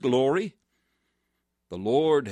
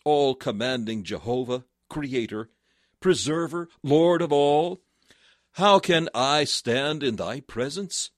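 louder, higher pleading address to God; fervent prayer; 3 semitones higher, 3 dB louder than usual. Acted. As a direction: lift the voice in awed prayer. David's prayer voiced fervently.

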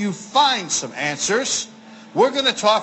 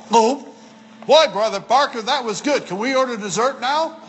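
mock-eager, rushing on to dessert; eager diner; 3 semitones higher than usual. Preacher mimics a man finishing steak in one bite, mock eager. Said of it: "and go".

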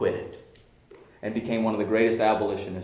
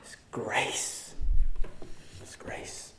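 hushed awe; much slower than usual. Acted. Pastor whispering to the congregation that it's grace, hushed. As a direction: let it fall to a breath.

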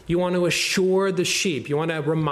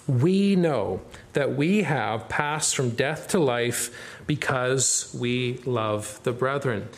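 slow verse reading, "we" stressed; emphatic reading; 2 semitones lower, slower than usual. Shown as a demonstration. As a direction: read the verse slowly, leaning on "we". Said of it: "It's emphatic in the Greek".

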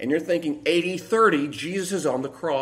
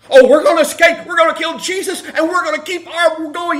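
mock triumphant boast; 11 semitones higher, 8 dB louder than usual. Mocking the rulers' boast.

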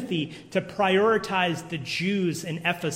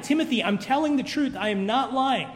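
insistent, higher-pitched plea to Timothy; emphatic Paul; 5 semitones higher than usual. Retold or imitated. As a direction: press it like a man swearing he's honest. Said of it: "He is so emphatic".

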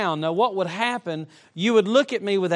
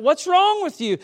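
concerned friend; 11 semitones higher, 6 dB louder than usual. Retold or imitated. Friend asks in car.

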